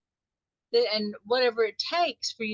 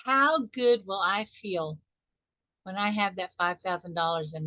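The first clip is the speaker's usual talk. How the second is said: slow savoring question; 3 semitones lower than usual. Shown as a demonstration. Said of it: "the clincher".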